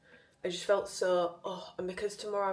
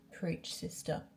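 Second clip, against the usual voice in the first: whispered aside; 4 dB quieter, slower than usual. Real, not acted. Reacting to the quote.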